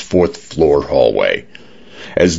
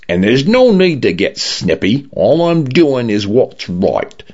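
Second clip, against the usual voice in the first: brightness gone; 7 semitones higher than usual. A narrator's reading. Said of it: "Brightness fell from the voice".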